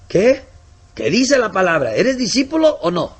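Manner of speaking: loud, high demanding questions; sharp challenge. Acted. Missionary challenges the brother, loud and demanding. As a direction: corner him with the Word.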